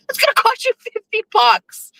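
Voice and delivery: high, whining complaint; whiny Jeff. Retold or imitated. Jeff whining about the fifty-dollar burger bill, high and nagging. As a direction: whine it like a nagging husband.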